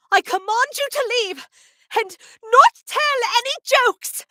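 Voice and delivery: high, commanding royal character voice; loud, high regal order, slowing at the end; Queen Bouncelia. Acted. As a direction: proclaim it like an outraged cartoon queen. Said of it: "Alex asked me to say a line from the game".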